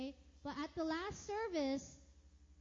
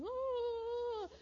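mock surprise; 10 semitones higher than usual. Retold sudden realization.

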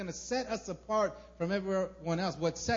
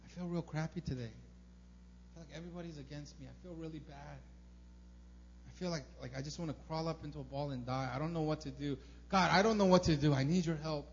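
honest weary prayer. Retold or imitated. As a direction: pray like you're at the end of your rope. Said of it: "felt, like, really bad and prayed to God".

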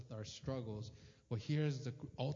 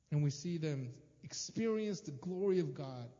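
ordinary delivery

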